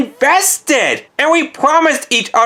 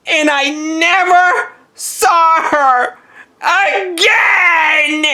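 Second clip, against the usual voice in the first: slow build into a tearful cry; anguished wail; 2 semitones higher, much slower than usual. Acted. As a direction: stretch it out into a hammed-up wail. Climax of breakup story.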